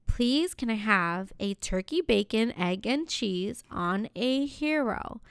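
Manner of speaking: slow, measured deli order; careful polite order. Retold or imitated. Customer ordering from the sandwich guy, slow and careful. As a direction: place the order politely, spelling it out slowly.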